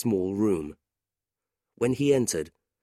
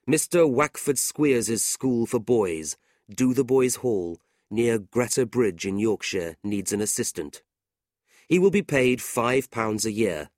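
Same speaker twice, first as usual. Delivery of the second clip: measured, slightly raised reading-out voice; reading an advertisement; 3 semitones higher, 4 dB louder than usual. A narrator's reading. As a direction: read it out as a printed advertisement.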